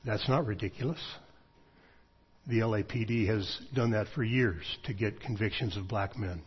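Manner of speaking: quietly calm, matter-of-fact reply; a friend answering calmly and seriously. Retold or imitated. Friend calmly correcting him, quiet and serious. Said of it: "sitting next to me very calmly".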